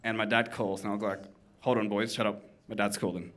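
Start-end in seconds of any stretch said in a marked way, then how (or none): 1.6-3.3 put-on low, soft Australian aside to the boys; Australian voice, dropped low and quiet; Australian accent. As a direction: hush your mates in casual Australian. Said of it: "I go from my Australian accent".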